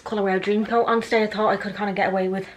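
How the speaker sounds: breathless, catching her breath. Real, not acted. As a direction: talk while winded. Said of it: "I'm out of breath".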